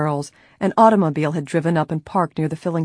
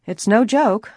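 louder, higher earnest insistence; 5 semitones higher, 5 dB louder, slower than usual. A narrator's reading. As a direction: insist sincerely and firmly. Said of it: "Nancy returned earnestly".

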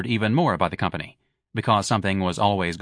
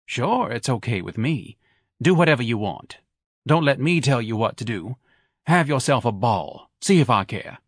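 Mrs Levy's voice. Acted. Wife sniping at her husband who skipped the races. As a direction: needle him with every word.

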